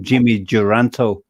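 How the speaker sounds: "Duranto" with an added final o; mispronounced name. Real, not acted. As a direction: say "Duranto", ending on a clear "toh". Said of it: "I was probably pronouncing it wrongly".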